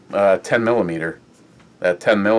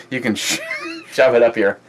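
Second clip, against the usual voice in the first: laughing; 2 semitones higher, faster than usual. Real, not acted. Laughing through rant about caller.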